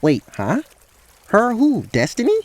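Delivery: high, puzzled character voice; protest, then question in confusion; baffled Rael. Acted. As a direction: thrown and incredulous.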